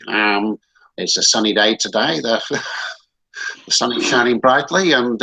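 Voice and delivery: mock Australian pilot briefing passengers over the intercom; Australian pilot accent. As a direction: ham up a cheerful Aussie pilot announcement. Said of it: "that's my Australian accent".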